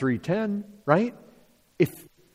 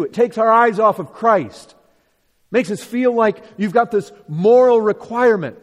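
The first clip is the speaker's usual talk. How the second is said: raised, urgent preacher voice; forceful preaching; 6 semitones higher, 7 dB louder than usual. Real, not acted. Preacher challenging the congregation's focus on law, forceful preaching. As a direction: press the point home, pitch lifted.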